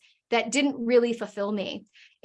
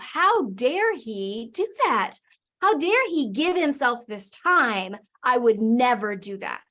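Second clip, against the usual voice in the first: slow, slightly raised mock outrage; indignant inner rant; slower than usual. Wife fuming at husband, slow indignant mock outrage. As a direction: play the wife fuming at her husband in the car. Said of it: "And I was so mad".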